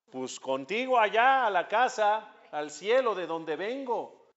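lightly acted child appealing to a parent; pleading explanation. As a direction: plead upward, phrase by phrase. Soul explains its plea to God.

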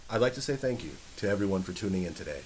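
polished announcer voice; white voice. Pretend. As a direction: put on a formal radio read. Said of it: "This is my white voice".

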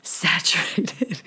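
Saturated stretched slowly, each syllable drawn. Shown as a demonstration. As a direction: drawl Saturated slowly and softly. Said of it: "I kept saying that".

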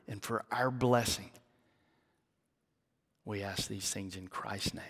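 earnest pastor's prayer, fading to a hush at the amen; closing prayer. Real, not acted. Leads the congregation in prayer.

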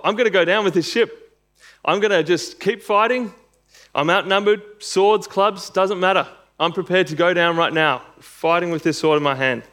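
mock heroic last stand; defiant Peter. Voices Peter's defiant fighting vow.

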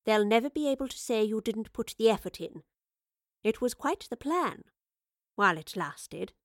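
lightly mocking consolation; comforting. A narrator's reading. Professor consoles the furious Wayland, comforting. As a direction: console him with false sympathy. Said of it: "said in a comforting tone".

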